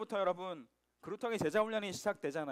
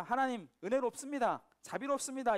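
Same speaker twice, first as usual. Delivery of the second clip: sarcastic praise; 4 semitones higher than usual. Acted. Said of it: "이 비아냥대는 말이거든요".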